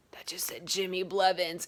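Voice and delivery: hushed whisper of realisation; stunned whisper. Retold or imitated. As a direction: whisper it as it dawns on you. Realising on seeing TV.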